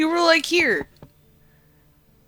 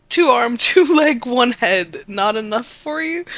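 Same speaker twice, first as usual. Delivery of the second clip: higher, louder indignant creature; loud cat voice; 7 semitones higher, 8 dB louder than usual. Acted. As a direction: bark it out with a laugh. Cat defends being human.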